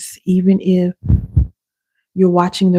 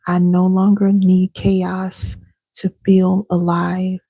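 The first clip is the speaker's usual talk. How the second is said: slow affirmation; slower than usual. Shown as a demonstration. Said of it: "Repeat after me".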